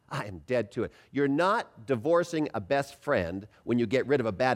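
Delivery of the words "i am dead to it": low, soft, smiling assurance; with a smile. Shown as a demonstration. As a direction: say it gently through a smile. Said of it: "say it with a smile".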